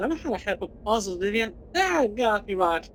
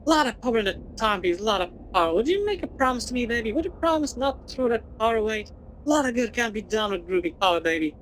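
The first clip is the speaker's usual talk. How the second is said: groovy hippie voice; faster than usual. Acted. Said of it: "Charles, don't call me baby".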